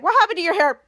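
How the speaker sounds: loud, stunned question; shocked. Acted. Henry seeing Piper's ruined hair, shocked. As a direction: demand it in acted disbelief. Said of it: "all this shocked feeling".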